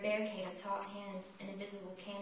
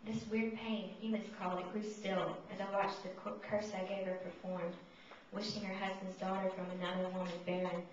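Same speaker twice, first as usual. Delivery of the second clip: voice of Mephistopheles; 5 dB louder than usual. Acted. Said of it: "I read it in the voice of Mephistopheles".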